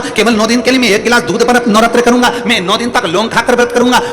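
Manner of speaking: preacher mimics boastful devotees, mocking and high; mocking imitation. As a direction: lampoon the showy nine-day pledges. Mocks devotees' shallow vow pledges.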